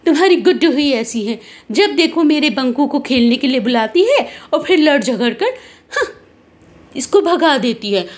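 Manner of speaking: put-on mildly cross complaint about the other child; understated acted scolding; scolding mother. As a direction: grumble accusingly at the neighbour. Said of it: "Guddu को डांटने लग जाती है".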